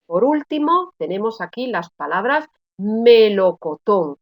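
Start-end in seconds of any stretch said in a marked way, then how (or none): 2.8-4.2 "melocotón" spelled out in syllables, landing on TÓN; teacher demonstrating me-lo-co-TÓN; stress on last syllable. Shown as a demonstration. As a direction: draw out "melocotón" and hit the final TÓN. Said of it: "yo estoy pronunciando como sílaba tónica la última".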